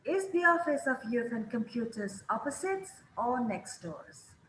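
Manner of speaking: "opposite" up, "next doors" falling away; teacher repeating the model; rise then fall. Shown as a demonstration. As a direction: let "doors" fade out at the end. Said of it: "Pilihan pertama selalu naik".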